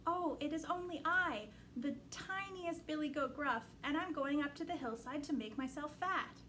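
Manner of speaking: small, timid little goat. Acted. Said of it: "with such a small voice".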